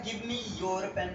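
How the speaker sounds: slow teaching read. Shown as a demonstration. Teacher dictating slowly to students. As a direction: spell it out slowly for the class. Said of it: "इसको English में कहने का तरीका है".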